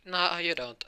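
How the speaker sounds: high, punchy mock defiance; defiant retort. Young hero refuses to be absorbed, defiant. Deku defies the attacking villain.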